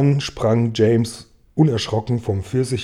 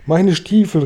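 higher-pitched exclamation; crying out; 6 semitones higher, 4 dB louder than usual. A narrator's reading. Centipede finds his boots ruined, higher cry of dismay. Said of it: "rief Tausendfüßler".

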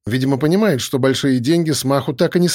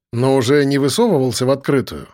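plain reading voice

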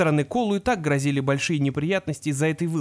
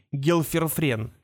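strange mumbled words; much slower than usual. A narrator's reading. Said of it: "бормотал какие-то странные слова".

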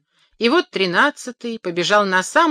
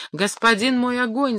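pleading cry; 6 semitones higher than usual. Acted. Rooster begs the fire, high and rising plea. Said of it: "закричал тринадцатый".

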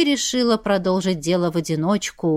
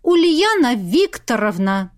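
slow, indignant exclamation; 2 semitones higher, 3 dB louder, slower than usual. Acted. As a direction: call her out in outrage. Indignant, exposing the prankster.

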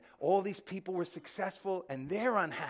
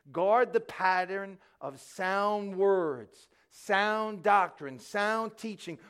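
each word slow and hammered home; slow, loud, weighty preaching stress; slow emphatic; 5 dB louder, much slower than usual. Real, not acted. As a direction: lean hard on guard and sound. Preacher stressing key command.

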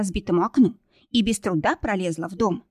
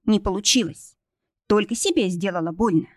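usual speaking voice

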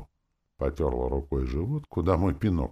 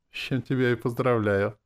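snide; 8 semitones higher than usual. A narrator's reading. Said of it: "тут же съехидничал".

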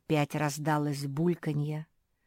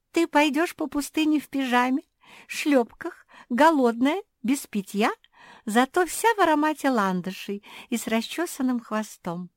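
mocking; 9 semitones higher, 6 dB louder than usual. A narrator's reading. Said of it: "Жози расхохоталась".

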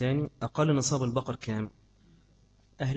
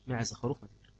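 fade out; 6 dB quieter than usual. Real, not acted. Trails off.

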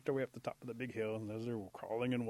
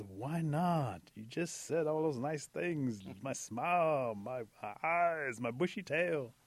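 raised, drawn-out pleading; hurt protest; 4 semitones higher, 4 dB louder, much slower than usual. Acted. Possum turned down by the girls, protesting. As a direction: plead against the rejection.

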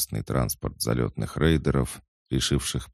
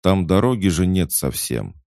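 higher, louder objection; protest, voice lifted; 6 semitones higher, 5 dB louder than usual. A narrator's reading. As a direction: object in a raised voice. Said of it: "попытался протестовать тот".

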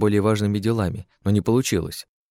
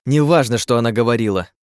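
angry outburst; 4 dB louder than usual. Acted. Queen snaps in anger.

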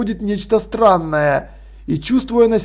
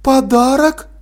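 «Подарок?» с подъёмом, недоверчиво; переспрашивает в недоумении; недоумённо; 5 semitones higher, slower than usual. Acted. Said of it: "не поняла мать". (мать недоумённо переспрашивает «Подарок?»)

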